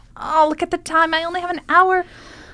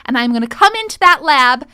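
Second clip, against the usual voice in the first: angry threat; 2 semitones higher, 3 dB louder than usual. Acted.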